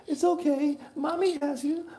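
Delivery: hammed-up mom comforting her child; mock mommy voice. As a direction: coo like an overprotective mother. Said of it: "No, Mom".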